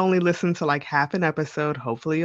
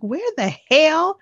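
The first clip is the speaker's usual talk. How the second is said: high mock confusion; 10 semitones higher than usual. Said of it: "you're like".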